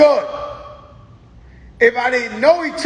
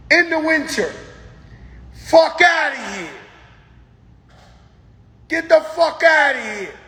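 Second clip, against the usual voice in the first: mock Remy brag; 7 semitones higher than usual. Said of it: "So Remy trying to let chicks know".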